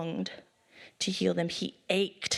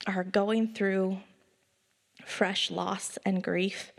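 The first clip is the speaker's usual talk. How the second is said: tender consoling pastor. Real, not acted. Compassionate address to grieving.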